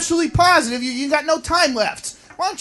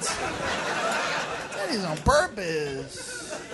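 muttered aside; 4 semitones lower, 14 dB quieter, much slower than usual. Acted.

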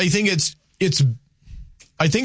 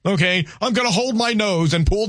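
higher, exasperated imitation of a fed-up voter; mocking voter's complaint; 5 semitones higher than usual. Host imitating voters who dislike both candidates, mock exasperated. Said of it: "a lot of people will use this line".

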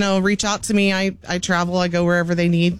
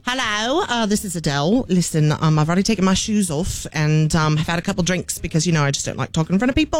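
light Cockney-tinged singer voice; mock acceptance speech by a singer, lightly voiced; impression of a singer. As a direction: play a singer accepting an award, chatty. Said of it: "if it were true fashion of a singer".

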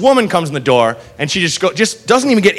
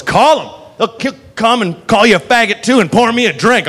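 put-on higher-pitched drunken taunt; defiant drunk woman; 6 semitones higher than usual. Drunk woman to the bartender, defiant taunt. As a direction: play a hammered customer daring him. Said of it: "she's hammered".

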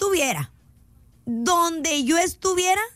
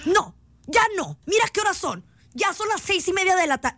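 higher-pitched scolding mother imitation; regaño de mamá; 4 semitones higher than usual. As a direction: refuse like a fed-up mom. (mamá regañando, en tono agudo)

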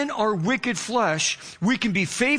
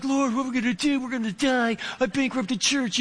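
muttering in despair in the parked car; defeated prayer. Retold or imitated. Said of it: "just total unbelief".

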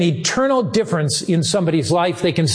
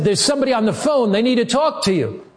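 quick and higher, called across the hall; calling out; 5 semitones higher, faster than usual. Retold or imitated. Producer calls down to the pastor about the phone, fast high call. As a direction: rattle it off, calling from afar.

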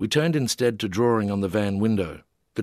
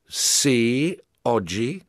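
bemused reply; 2 semitones higher, much slower than usual. A narrator's reading. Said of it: "bemusedly answered".

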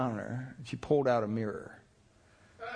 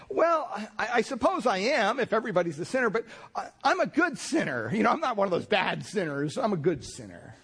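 much higher, self-satisfied voice; a man sure he is one of the good ones; smug good sinner; 6 semitones higher than usual. Retold or imitated. Self-satisfied man defends himself.

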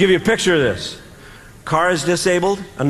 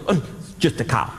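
lower, bored little machine voice; sensor voice; 5 semitones lower, 3 dB quieter than usual. Retold or imitated. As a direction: drone it like an indifferent sensor. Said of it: "a little sensor in there that goes".

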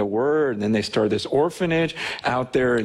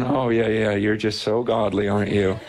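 dry mocking tease, lower; sarcastic God; 4 semitones lower than usual. God teasing the self-satisfied preacher, sarcastic. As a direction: needle him gently with irony.

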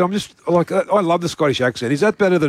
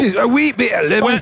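higher-pitched put-on Scottish accent; mock Scottish; 6 semitones higher than usual. Host teasing about the caller's accent, mock Scottish. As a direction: playfully mimic a Scottish caller. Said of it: "She's Scottish".

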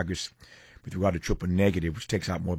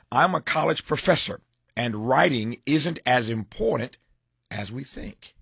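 headline teaser; 5 semitones higher, slower than usual. Acted. Host teasing the professor's editorial, announced headline.

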